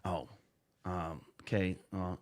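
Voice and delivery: warped through a voice changer. Real, not acted. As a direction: voice run through a voice changer app. Voice Mod app in use.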